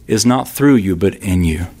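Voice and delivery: "through" lifted, "in you" dropped low; contrast through and in. Shown as a demonstration. Preacher contrasting "through you" with "in you". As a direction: set "in you" against "through you". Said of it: "The greatest work ... but in you".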